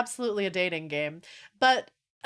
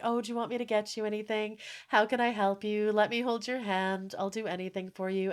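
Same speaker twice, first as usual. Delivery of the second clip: sweet doting voice; 5 dB quieter than usual. Retold or imitated. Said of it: "and he's like".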